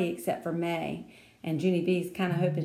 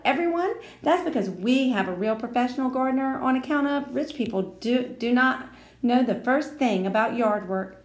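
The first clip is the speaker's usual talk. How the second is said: bragging; 6 semitones higher, 5 dB louder than usual. A narrator's reading. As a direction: show off every word. Lucille bragging.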